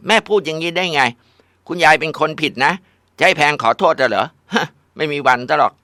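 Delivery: high, loud scornful refusal; defiant refusal. Acted. Daughter refuses to apologize to grandma, loud defiant. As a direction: refuse flat out, outraged.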